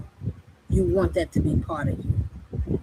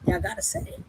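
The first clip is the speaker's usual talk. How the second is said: urging the crowd; 5 dB quieter than usual. Real, not acted. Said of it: "This is when y'all say, "Amen".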